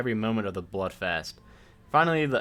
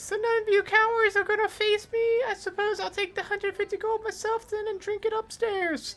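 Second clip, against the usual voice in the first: squeaky, very high dwarf voice. The narrator voices the dwarf Crom berating drunk punters: squeaky Crom voice. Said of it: "This guy's gonna have a squeaky voice".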